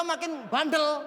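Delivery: ordinary talk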